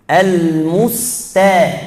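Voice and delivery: Al-musta with a thick ta, drawn out; wrong heavy ta. Shown as a demonstration. Teacher showing the common mistake, slow. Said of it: "Bukan ta".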